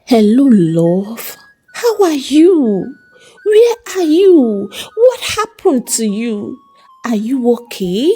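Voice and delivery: desperate bride begging her groom on the phone; tearful pleading. A narrator's reading. Bride finally reaches missing groom.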